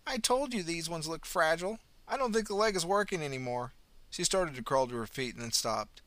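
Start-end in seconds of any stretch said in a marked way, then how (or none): 0.1-3.7 put-on high, sweet old lady voice; old woman. A narrator's reading. Old pensioner cheerfully greeting the ambulance officer, high and sweet. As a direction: chirp it like a kindly granny.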